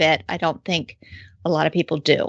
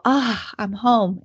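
slow, relieved sigh of arrival; imitating a dog's big relieved sigh; contented sigh; 3 semitones higher, slower than usual. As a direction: sigh it out slowly, like finally getting home. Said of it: "take a big sigh".

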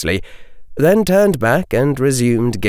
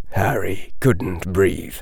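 ordinary delivery, nothing marked

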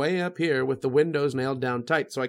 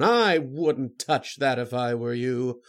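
slow, drawn-out villain's warning; slower than usual. Acted. Writer reading his villain at the telephone, warning. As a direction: stretch it into a measured threat. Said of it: "warned the man who called himself".

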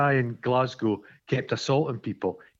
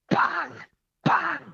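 imitated bangs. Imitating the banging noise.

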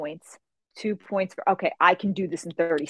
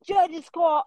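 alarmed referee shout; 10 semitones higher, much slower than usual. Retold or imitated. Center judge stops the illegal punch: high alarmed shout. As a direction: yell whoa like a judge stopping a fight. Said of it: "I hear Mister Peoples go".

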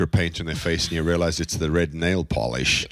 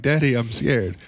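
lightly imitated four-year-old, pitched higher; scared child; 6 semitones higher than usual. Father voicing scared four-year-old at bedtime, scared child. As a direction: plead to Daddy in a mock child voice.

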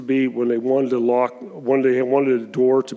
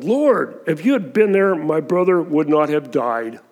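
raised, louder pleading cry to the Lord; grieving plea; 3 semitones higher, 5 dB louder than usual. Acted. Mary at Jesus' feet, grieving her brother: raised, pleading. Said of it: "Same thing Martha said, but I think it was a difference".

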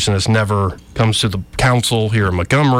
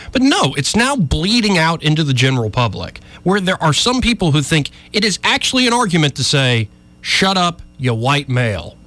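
higher-pitched, mildly exasperated ranting; worked-up rant; 6 semitones higher than usual. Real, not acted. Radio host channeling an outspoken councilman, worked-up rant. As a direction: rant with rising pitch, no extra volume. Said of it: "sorry for my little rant there".

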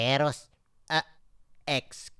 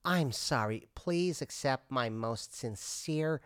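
soft apology; 2 semitones lower, 5 dB quieter than usual. Acted. Customer apologizes, growing softer.

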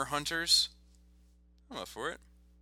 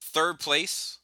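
slightly raised announcer delivery; contest announcer; 3 semitones higher, 4 dB louder, slower than usual. Pretend. Host reveals third place to listeners, lightly voiced announcer.

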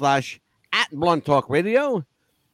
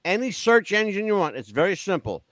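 radio announcer. Shown as a demonstration. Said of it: "I got a radio voice".

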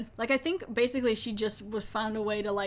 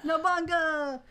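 excited echo; 7 semitones higher, slower than usual. Real, not acted. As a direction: shout it back with glee. Echoing the gorilla's name.

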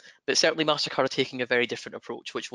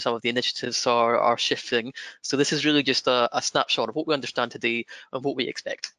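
his own broad Scottish accent. Real, not acted. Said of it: "apologise in advance for my broad Scottish accent".

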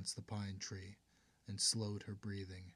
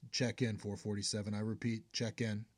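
muffled radio voice; 4 dB louder than usual. Acted. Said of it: "a muffled voice came from his helmet".

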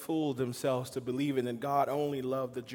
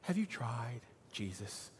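infomercial pitch; 4 semitones lower, 11 dB quieter than usual. Pretend. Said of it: "Sounds like an infomercial".

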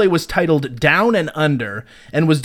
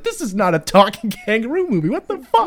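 higher, incredulous complaint with a laugh; mock outraged audience; 5 semitones higher than usual. Audiences demanding refunds for the movie, mock outrage. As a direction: play up the baffled indignation. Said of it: "they're like".

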